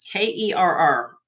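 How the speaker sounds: K E R R, each letter said apart; spelling it out. Shown as a demonstration. Host spelling the designer's name for viewers. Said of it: "spells out the name".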